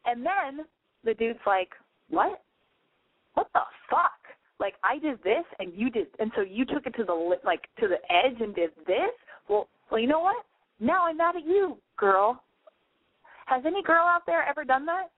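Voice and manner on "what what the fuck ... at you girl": lightly voiced annoyed boyfriend; mock boyfriend voice. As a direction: play the baffled boyfriend turning mad. Boyfriend's retort in retold fight.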